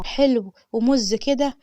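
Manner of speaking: slow, lingering on each word; slow dreamy admiration. Retold or imitated. Woman dazzled by the handsome manager, slow and dreamy. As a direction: savor it like you are smitten.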